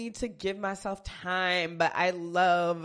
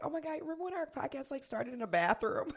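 excited; 8 semitones higher, 7 dB quieter, faster than usual. Retold or imitated. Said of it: "where I was just like".

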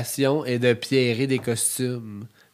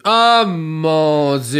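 surprised; 4 semitones higher, 8 dB louder, much slower than usual. Real, not acted. Astonished at day sixty-two.

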